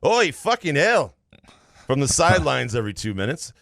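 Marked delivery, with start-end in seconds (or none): 0.0-1.2 higher, drawn-out British touchline yell; Sam Dyche yelling. Retold or imitated. Host reads out a touchline rant from a listener take, mock yelling. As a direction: yell it slowly like a burly British manager. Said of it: "Burnley manager Sam Dyche yelling".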